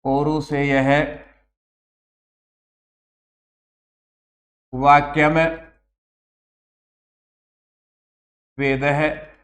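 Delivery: अपौरुषेय, वाक्यम, वेद है set apart by long pauses; slow dictation. Shown as a demonstration. Teacher reading the definition for students to write. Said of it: "teacher dictates definition slowly".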